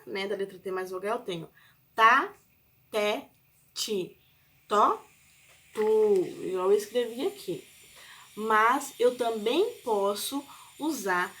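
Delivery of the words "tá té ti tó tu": "tá, té, ti, tó, tu" one syllable at a time, paused between; syllable demonstration. Shown as a demonstration. Teacher listing the syllables of letter T, separately sounded out. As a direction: sound out each T plus vowel separately. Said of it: "Quando eu tenho a sílaba".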